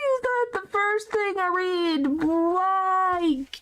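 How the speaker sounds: high, incredulous outcry; shocked at what was just read; disbelief. Real, not acted. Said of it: "Why, game, are you like this?".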